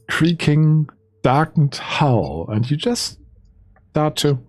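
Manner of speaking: deliberate storytelling with stretched descriptive words; game master scene setting. Acted. Game master describes waking in the ship's hull, storyteller narration. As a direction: ease the players into waking aboard.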